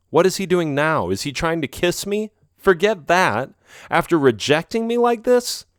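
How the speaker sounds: indignant. Acted. Indignant thoughts, refusing a kiss.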